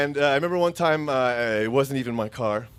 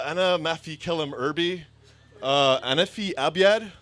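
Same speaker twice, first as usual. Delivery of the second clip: playing dumb; 4 semitones higher, 3 dB louder, much faster than usual. Playing dumb in broken Arabic.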